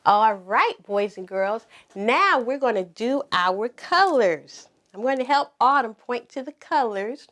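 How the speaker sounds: slow, clear classroom voice; pretend teacher. Mom playing teacher asks the pretend class to say each color. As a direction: model each color word for little kids.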